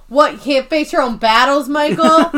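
loud mocking jab; taunting. Pam ignoring Toby to taunt Michael, loud mocking. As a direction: throw it past Toby at Michael. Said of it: "she's like".

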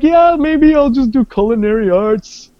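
sarcastic. Retold or imitated. Sarcastic self-quote about applying.

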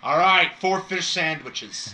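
slow, drawn-out order confirmation; bored waitress. Acted. DM voices waitress.

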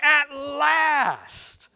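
high drawn-out cry of joy; exclaimed. Acted. Adam seeing Eve, high joyful exclaim. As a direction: savor the relief. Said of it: "he exclaimed".

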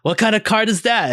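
swaggering pirate, rising high at the end; Johnny Depp pirate voice. Retold or imitated. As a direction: ham up a rum-soaked pirate captain. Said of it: "in pirate voice of Johnny Depp".

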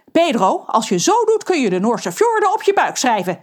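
angry. Acted. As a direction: scold the pirate. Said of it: "zegt Lorelei boos". (Lorelei boos tegen Pedro)

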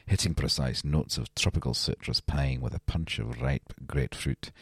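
hint of a Scottish brogue, low and soft; Scottish accent. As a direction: read the beer label like a Scots ad voice. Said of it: "I really thought that was a good Scottish accent".

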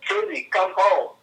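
calling the dog. Retold or imitated. Friend imitates the owner telling Daisy to come home, calling. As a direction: mimic summoning a dog.

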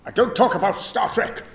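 lightly put-on actor impression; a hint of a famous captain; Patrick Stewart. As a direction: attempt a stage actor's voice. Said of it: "Patrick Stewart".

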